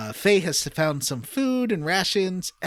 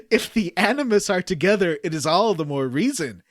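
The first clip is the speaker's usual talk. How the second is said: hammed-up game dialogue. Reading game script aloud to co-hosts, hammed-up dramatic voices. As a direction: overact the villains' lines while trying not to laugh.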